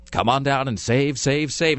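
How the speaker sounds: mock car-lot pitch, stretched out; slow, unconvincing commercial patter; insincere ad read. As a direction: read dealership copy with hollow salesmanship. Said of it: "being sincere or, or believable in any way".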